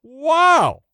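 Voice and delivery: gee-whiz wide-eyed wonder, high; golly-gosh kid excitement; wholesome 1950s kid. Pretend. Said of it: "Did you just say wowie?".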